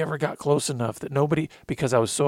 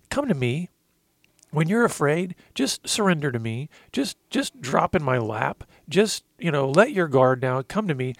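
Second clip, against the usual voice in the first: a hint of a loving father comforting his son; tender fatherly voice; 2 semitones higher than usual. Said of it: "Jesus put his arms around me and he said".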